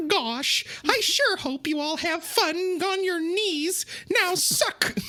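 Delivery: high, taunting villain voice; dark lord. Pretend. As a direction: sneer it like a gloating villain. Mock villain taunt continues.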